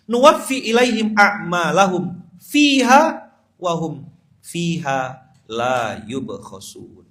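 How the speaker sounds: loud, slow chanted verse; Quran recitation. Acted. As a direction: draw out the verse solemnly.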